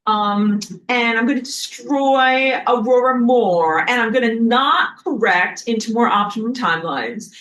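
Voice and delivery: hammed-up sun villain; mock evil sun. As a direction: gloat and threaten like a cartoon villain. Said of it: "I don't know if I did a good job of acting that out".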